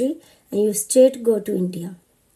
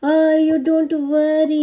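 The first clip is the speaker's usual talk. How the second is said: husband comforting; 6 semitones higher, 3 dB louder than usual. Retold or imitated. Husband voiced while hugging her.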